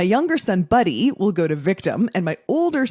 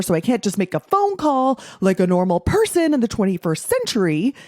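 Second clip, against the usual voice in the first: imitating ranting husband; 4 semitones higher than usual. Imitating husband blaming the car and the mechanic. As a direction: ham up a grumpy blaming tirade. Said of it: "He'd be like".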